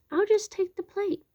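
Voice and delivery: high squeaky mouse voice; little mouse thinking aloud, very high; greedy mouse thought. Acted. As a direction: pipe it up high, greedy and pleased.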